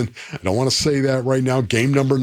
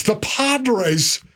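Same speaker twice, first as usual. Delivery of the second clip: announcer Padres; 5 semitones higher than usual. Real, not acted. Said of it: "you still say it like a baseball announcer".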